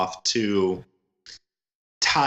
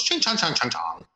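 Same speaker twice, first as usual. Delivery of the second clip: mock villain taunt. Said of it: "he looks at 'em and goes".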